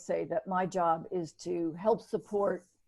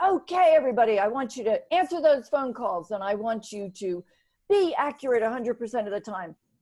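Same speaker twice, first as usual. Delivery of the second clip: raised shouting voice; 4 semitones higher, 7 dB louder than usual. Retelling a team leader's talk at a team meeting: imitating someone yelling. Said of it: "he's, like, yelling".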